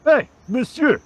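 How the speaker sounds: loud angry yell; angry shout. Acted. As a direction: shout him off the paint pot. Painter shouting at George.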